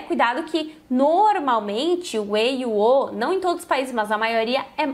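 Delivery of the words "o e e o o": E and O said more closed; closed vowels. Shown as a demonstration. Teacher showing Spanish vowels to students, closed vowels. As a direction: keep the E and O closed. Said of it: "são mais fechados".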